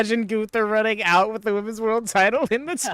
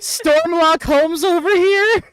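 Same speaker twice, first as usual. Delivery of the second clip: noir detective; 10 semitones higher, 6 dB louder, slower than usual. Pretend. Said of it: "This L A Noire style".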